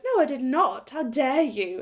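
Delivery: indignant. Retold or imitated. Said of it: "I was, like, so indignant".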